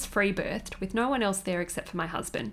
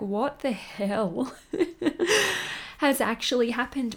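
laughing disbelief; 4 semitones higher than usual. Retold or imitated. Retelling shock after the birth.

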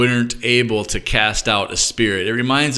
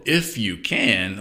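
slow, gentle, playful smile in the voice; smile and twinkle; slower than usual. Shown as a demonstration. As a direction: tease kindly, drawing the words out. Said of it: "said with a smile and a twinkle".

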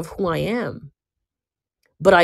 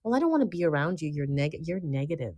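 imitating people; 10 dB quieter, faster than usual. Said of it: "you know what people say".

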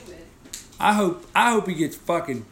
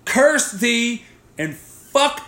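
preacher voice; 4 semitones higher than usual. Pretend. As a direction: boom it out like a mock preacher. Mock biblical preacher voice.

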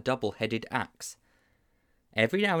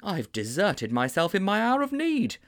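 miserable; 9 semitones higher than usual. A narrator's reading. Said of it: "said Mildew miserably".

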